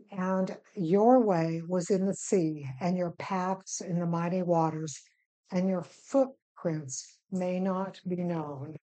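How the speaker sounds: slow, deliberate Bible reading; scripture reading. Acted. Teacher reading a psalm verse to the group, slow scripture reading. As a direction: read the verse out slowly, with measured pauses.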